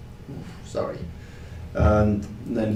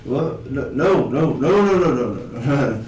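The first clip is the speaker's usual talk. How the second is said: rising, louder string of no's; panicked pleading; 3 semitones higher, 3 dB louder, slower than usual. Acted. Drunk begging the marshal not to arrest him, panicked. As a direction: beg frantically not to be taken in.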